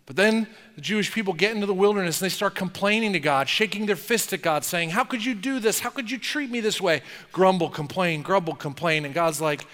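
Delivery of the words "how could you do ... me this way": higher, whiny complaint; mock whining complaint. Israelites complaining to God, mock whine.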